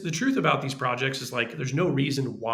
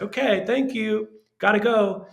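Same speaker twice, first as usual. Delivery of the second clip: higher, hurried mock goodbye to get off the call; imitating producers cutting the meeting short, a bit louder; quick brush-off; 8 semitones higher, 4 dB louder than usual. Producers ending the Zoom pitch awkwardly, mock brisk high brush-off.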